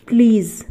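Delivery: "प्लीज़" said firmly with a buzzing final z; correct z ending. Shown as a demonstration. Teacher repeating the corrected word for learners, "प्लीज़" ending in z. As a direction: finish "प्लीज़" on z, never j. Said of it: "तो ये ज बन गया".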